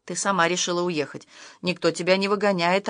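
plain reading voice

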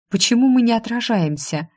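high-pitched puzzled question; surprised. A narrator's reading. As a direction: ask it in wonder. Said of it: "удивилась я".

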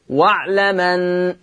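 واعلمن said very slowly, the ميم opened and joined to the نون; transferred hamza. Shown as a demonstration. Teacher demonstrating naql to students, very slow. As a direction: draw out واعلمن, carrying the fatha onto the ميم. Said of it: "فيصير النطق واعلمن".

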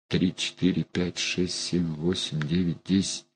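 barely audible count of strikes; counting under breath. A narrator's reading. (тихий счёт шёпотом)

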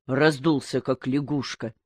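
plain reading voice

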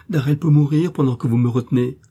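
plus aigu et plus fort, pressant; cri passionné. A narrator's reading. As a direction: crier son angoisse. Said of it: "s'écria-t-elle avec passion". (Millicent crie son urgence à l'aubergiste)

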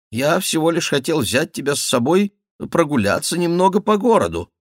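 high, animated ducal voice; duke, protesting innocence. Acted. Duke invites Bussy out into town, high-pitched and insistent. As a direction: plead innocent intentions in a high, lively voice.

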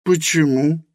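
put-on high, young woman's voice, questioning; Helena's voice. A narrator's reading. Helena asks Rosa why, in a high voice.

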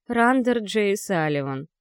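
slow, tasting each syllable; savoring murmur. Acted. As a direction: roll the name around slowly. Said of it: "пробормотала, пробуя на вкус".

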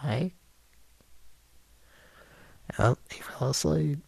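hushed whisper. Real, not acted. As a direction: whisper so he won't wake. Mike asleep, not waking him.

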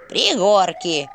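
slow, grumbled snap; grumbling granny. A narrator's reading. Old woman grumbling the village name at the owl. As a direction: grumble the word back at him. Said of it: "буркнула бабка".

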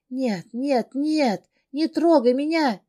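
high, loud frantic no, no, no; cornered heroine yells to keep him off; wounded animal yelp. Acted. Terrified heroine shouts at the monster approaching her. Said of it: "Рявкаю раненым зверем".

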